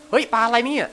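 surprised. Real, not acted. Surprise at catch.

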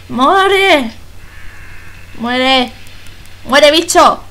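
fierce game-battle shouts; shouting at the enemy. Real, not acted. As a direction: yell at the monster to die. Shooting a monster in the game. (gritándole al bicho que se muera)

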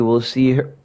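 talking through hiccups; hiccuping between words. Real, not acted. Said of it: "I'm hiccuping so bad".

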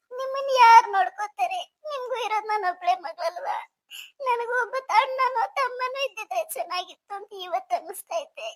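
acted tearful farewell, halting between words; sobbing bride's lament; crying. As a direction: plead brokenly with the family. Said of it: "ನೀನ್ ಅಳಬೇಡ ನೀನು".

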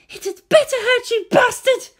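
high, loud, fierce voice; vengeful. A narrator's reading. Captive woman into her attacker's ear, vengeful. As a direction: spit it at him, high and forceful. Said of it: "Then to his ears".

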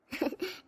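soft, short amused laugh; small chuckle. Acted. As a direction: chuckle quietly to yourself. Daughter-in-law amused, alone.

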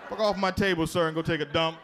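high, incredulous doctor scolding a patient; mock outrage from the surgeon; doctor chewing out a patient.

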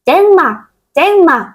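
high, bright cheering for herself; excited cheer. Acted. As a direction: cheer it out twice, thrilled. Child cheering about her stickers.

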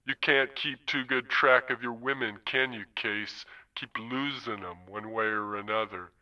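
Zone, easy and unhurried, a hint of menace; languid pimp. Wintermute as Zone needling Case about the flatline, lightly voiced languid pimp.

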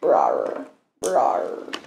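low playful rawr; dinosaur roar. Pretend. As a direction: growl it like a tiny T-Rex. Kid roars as toy T-Rex.

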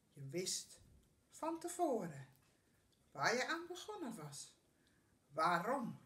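measured recital with pauses after each phrase; poem read aloud with weight; poem recitation. Acted.

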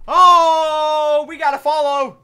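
thrilled high cry at a new follower; excited. Real, not acted. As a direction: burst out with delight. New follower notification on stream.

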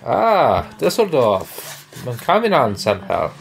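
mock German gibberish; fake German. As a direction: babble in made-up German. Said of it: "That's fake German".

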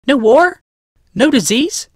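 hope rising in disbelief; amazed Rebecca. Acted. Rebecca amazed at new world.

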